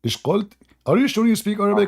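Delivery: high, fast disbelief; can't believe what he heard; incredulous. Real, not acted. Streamer to his guest, mock incredulous. Mocking guest's dialect phrase.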